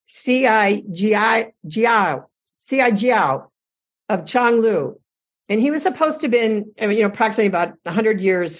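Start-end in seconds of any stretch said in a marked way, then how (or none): 0.0-3.5 "C I Jiao" sounded out slowly, syllable by syllable; "C I Jiao" said slowly, then repeated whole; careful pronunciation. Real, not acted. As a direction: carefully attempt the Chinese name "C I Jiao". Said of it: "do my best to pronounce it".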